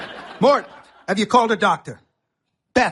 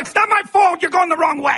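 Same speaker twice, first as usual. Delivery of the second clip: higher and louder defensive yell; defensive shout; shouting back; 7 semitones higher, 4 dB louder than usual. Acted.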